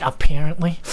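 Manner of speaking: "apparently" with PAIR in the middle, trying it out; avoided pronunciation. Shown as a demonstration. Testing the word that gives goosebumps, avoided pronunciation. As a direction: say "apparently" in the version that feels wrong. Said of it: "gives me, like, goosebumps when I say it".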